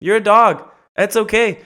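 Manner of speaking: calm the dog down kindly; mock-soothing high voice to a dog. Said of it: "And I go".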